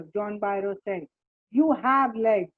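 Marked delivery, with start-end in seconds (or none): 1.6-2.5 a louder dismissive shout of "You have legs". Acted. Uncle brushing off the farmer's complaint, a louder shout. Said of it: "my uncle Khusro shouted".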